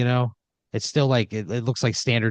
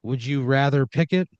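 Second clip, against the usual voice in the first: game show host; 5 semitones higher, 3 dB louder than usual. Acted. Host poses the choice.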